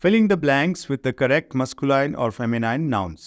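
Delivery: slow, careful reading of the English rule; slow textbook reading. Shown as a demonstration. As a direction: read the rule out word by word for the class. Reads instruction slowly. (انگریزی قاعدہ آہستہ آہستہ پڑھ کر سنانا)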